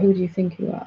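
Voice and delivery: open, gently questioning; curious self-inquiry. Shown as a demonstration. Asking oneself in open, curious self-inquiry. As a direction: ask it as a genuine inquiry into yourself. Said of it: "not the self-inquiry".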